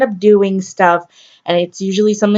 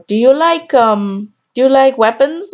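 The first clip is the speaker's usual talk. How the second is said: put-on a light Indian accent, lightly raised. Imitating a guy texting her in an Indian accent. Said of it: "I'm gonna do the accent".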